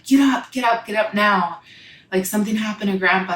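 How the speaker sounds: mild retelling of a frantic wake-up call; panicked brother. Retold or imitated. Brother shaking her awake at night, mildly urgent panicked call.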